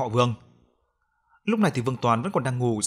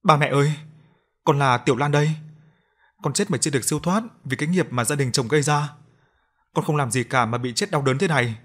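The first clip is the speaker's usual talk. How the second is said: possessed weeping plea; 3 semitones higher than usual. Acted. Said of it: "miệng phát ra những tiếng khóc thút thít".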